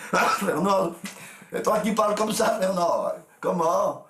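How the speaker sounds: high, hammed-up astonishment; imitating high-pitched, laughing disbelief; amazed exclamation. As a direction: call out to a friend in mock amazement, voice way up. Friends exclaim at hearing recorded voices.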